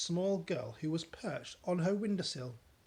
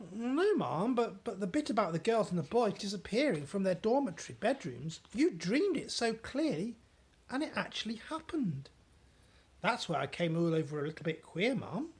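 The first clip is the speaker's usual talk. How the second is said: higher, flustered servant; maid voice; 5 semitones higher, 3 dB louder than usual. Acted. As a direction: rush it out nervously.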